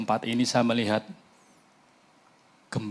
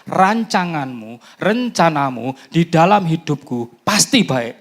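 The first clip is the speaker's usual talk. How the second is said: slow, loud, higher proclamation; proclaiming loudly; 5 semitones higher, 7 dB louder, slower than usual. Acted. Preacher proclaims God's plans to the church, slow loud declaration. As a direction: say "Rancanganmu, rencanamu" slowly and loud, punching "pasti". Climactic prayer.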